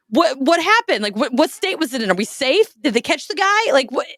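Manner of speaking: high, breathless mock panic questions; panicking. Teen grills family about the killer, high mock panic. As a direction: fire off frightened questions, pitch way up. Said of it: "and I'm just panicking".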